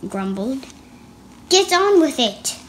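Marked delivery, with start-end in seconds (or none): 1.5-2.6 high, loud impatient command; loud bossy emperor command; impatient order. Acted. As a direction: bark it at the painter.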